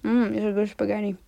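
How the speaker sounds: talking while chewing candy; words around a bite; mouth full. Real, not acted. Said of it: "I'm gonna eat that spaghetti".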